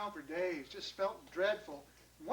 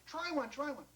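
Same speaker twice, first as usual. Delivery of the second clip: high, insistent repetition; eager urging; 6 semitones higher than usual. Acted. John begs his wife to taste, eager. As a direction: push eagerly, word after word.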